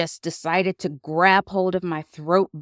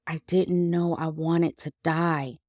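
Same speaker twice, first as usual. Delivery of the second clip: numb; 4 dB quieter than usual. Retold or imitated. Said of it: "all I kept saying was".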